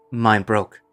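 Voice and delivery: put-on lightly Russian-accented man; matter-of-fact Russian accent. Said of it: "a Russian accent".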